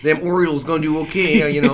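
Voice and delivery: tentatively lock into a Baltimore accent. Shown as a demonstration. Host trying out talk about the Orioles, Baltimore accent. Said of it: "You, you just got a Baltimore accent".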